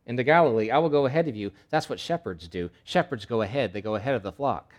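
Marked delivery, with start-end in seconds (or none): 0.1-1.5 emphatic proclamation. Acted. Preacher voicing Jesus' promise.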